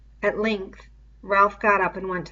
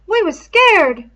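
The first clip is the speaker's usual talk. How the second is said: high, loud, slow, dragged out; slow scared admission; 11 semitones higher, 12 dB louder, slower than usual. A narrator's reading. Piggy insisting to Ralph they were all afraid, slow and high. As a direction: lean on the fear, slowly. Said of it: "said Piggy".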